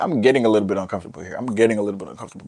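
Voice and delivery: fast, hurried mock unease; mock nervous rush. Telling viewers about the Starbucks stare, fast mock nervous. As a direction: rattle it off like you're squirming.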